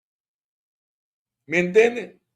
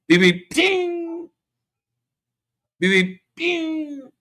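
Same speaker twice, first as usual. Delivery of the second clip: roadrunner beep; 13 semitones higher, slower than usual. Retold or imitated. Cartoon roadrunner call, Coyote named.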